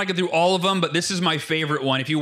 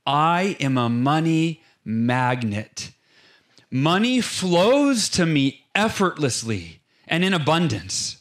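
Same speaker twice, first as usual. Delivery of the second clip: mocking dreamy affirmation; 2 semitones lower, slower than usual. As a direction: parody a flowery affirmation, drawn out. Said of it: "the affirmation along the lines of".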